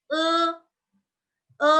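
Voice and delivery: E as a held schwa-like "eu", not "ay"; Mandarin E. Shown as a demonstration. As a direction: draw out E as "uh", unlike Indonesian E. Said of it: "Ini bukan E".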